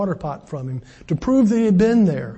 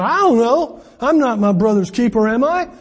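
defiant Cain; 4 semitones higher, 3 dB louder than usual. Acted. Cain answering God defiantly.

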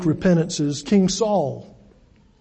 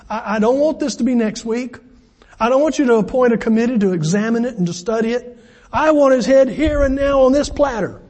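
put-on demanding girl; 4 semitones higher than usual. Preacher voicing Salome's demand.

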